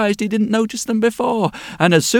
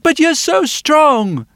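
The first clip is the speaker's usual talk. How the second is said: put-on high, slow child's plea; little girl; 10 semitones higher, 5 dB louder, slower than usual. Girl pleading with the blacksmith, high and slow. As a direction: stretch it out, a child in awe. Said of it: "says the little girl".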